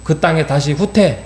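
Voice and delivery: mildly acted divine fury; angry God. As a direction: order them back as an angry God. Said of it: "하면서 막 분노하고".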